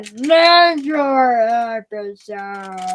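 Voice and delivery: Ninja voice. Retold or imitated. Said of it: "attempting that character".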